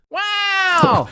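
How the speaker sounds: very high, put-on genie exclamation; Will Smith genie. Recast genie bursting forth, hammed-up high wow. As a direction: let out a big, high, showy wow. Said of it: "that's my Will Smith".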